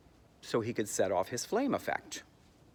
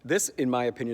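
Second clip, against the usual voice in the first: ordinary talk, nothing marked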